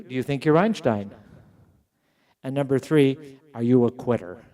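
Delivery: gently ask, without heat; calm professor. Retold or imitated. A touch of a calm professor asking his student. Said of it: "He looked at me very calmly and he said".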